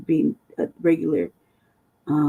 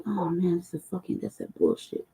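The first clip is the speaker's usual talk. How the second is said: muttered shit talking; 5 dB quieter than usual. Retold or imitated. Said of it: "shit talking".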